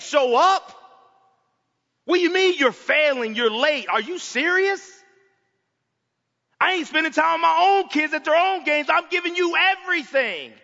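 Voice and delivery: exasperated complaint to God that ends in a shout. Retold or imitated. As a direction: vent at God, building to a cry. Preacher voicing his own complaint.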